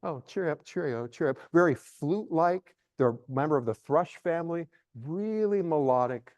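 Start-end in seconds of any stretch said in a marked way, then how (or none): 0.0-1.4 inner thought. Shown as a demonstration. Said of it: "I'm thinking".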